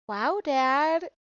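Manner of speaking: teasing, mock-scolding tone; playfully sass your dad; light sassy child scolding. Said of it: "being really sassy to him".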